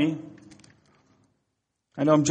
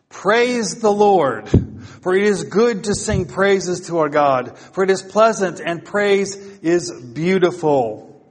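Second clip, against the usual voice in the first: declaimed scripture reading; 3 semitones higher than usual. Real, not acted. Preacher reading Psalm one forty-seven to congregation, declaimed. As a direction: proclaim the psalm with falling phrase ends.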